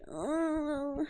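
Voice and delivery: high wordless whine of frustration; frustrated whine. Real, not acted. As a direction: whine helplessly over the lost sticker. Despairing over lost sticker.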